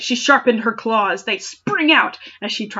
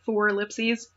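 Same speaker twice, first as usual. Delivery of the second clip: normal talking voice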